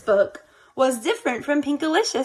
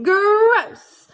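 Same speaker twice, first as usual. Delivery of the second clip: disgusted gross; 8 semitones higher, 6 dB louder than usual. A narrator's reading. Tasting bad candy cane.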